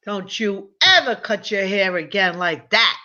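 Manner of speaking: slow stern mock scolding; father scolding his grown daughter, stern. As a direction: lay down the law like an old-school dad. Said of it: "father scolding daughter".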